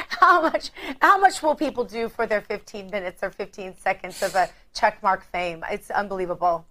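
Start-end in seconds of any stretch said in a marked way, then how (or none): 0.1-0.7 incredulous. Real, not acted. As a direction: exclaim it in disbelief. Host repeats in disbelief.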